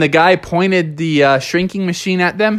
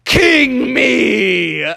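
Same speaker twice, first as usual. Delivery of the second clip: higher shouted cheer; Bubby claiming the win, shouting; triumphant shout; 8 semitones higher than usual. Acted. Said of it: "rolled off of him and said".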